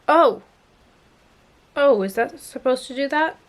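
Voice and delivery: startled high yelp; surprised. Real, not acted. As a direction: caught off guard, voice jumps up. Product pops out unexpectedly.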